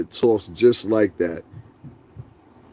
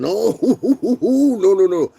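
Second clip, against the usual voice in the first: laughing no; 10 semitones higher, 4 dB louder, much slower than usual. Real, not acted. Laughing rejection of commenters.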